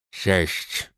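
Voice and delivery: drawn-out goblin demand. A narrator's reading. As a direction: spit the word slowly, goblin-like. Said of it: "wycedził weteran".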